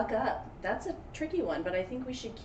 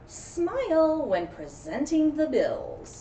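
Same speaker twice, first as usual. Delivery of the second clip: boss's order; 6 semitones higher, 4 dB louder, much slower than usual. A narrator's reading.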